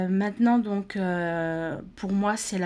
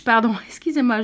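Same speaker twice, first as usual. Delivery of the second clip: rire gêné; 2 semitones higher, 7 dB louder, faster than usual. Real, not acted. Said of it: "je bafouille".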